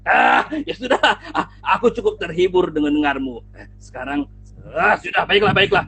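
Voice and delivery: loud, amused lion voice. Acted. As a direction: chuckle and relent, big cat. Singa terhibur, memutuskan. (singa terhibur, suara keras dan geli)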